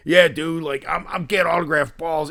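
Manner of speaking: high, punchy Philadelphia dude impression; Philly dude. Collector bragging to a stranger in line, Philly dude. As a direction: play an in-your-face guy from Philadelphia. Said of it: "He sounded like he was from, like, Philadelphia".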